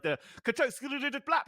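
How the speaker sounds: ability sound effects. Shown as a demonstration. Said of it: "I'm not good with my tongue for this portion".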